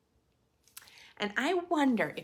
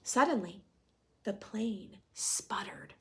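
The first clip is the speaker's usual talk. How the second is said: suspenseful storytelling. A narrator's reading. Reading picture book to class.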